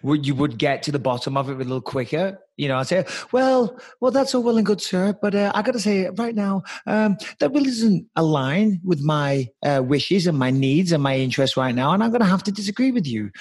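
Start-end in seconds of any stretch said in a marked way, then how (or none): 3.3-13.3 hesitant, over-courteous disagreement; polite and calm. Pretend. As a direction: pretend to object very politely. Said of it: "Maybe being polite and calm".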